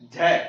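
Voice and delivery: झ pushed out with a strong breath; with some force. Shown as a demonstration. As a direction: lean on the aspiration of झ. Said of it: "थोड़ा जोर दे करके". (झ थोड़ा ज़ोर देकर)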